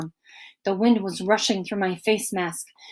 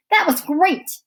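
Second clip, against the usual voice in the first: high, louder thrilled cry; excited shout; 9 semitones higher, 5 dB louder than usual. A narrator's reading. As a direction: call it out with joy. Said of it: "he shouted".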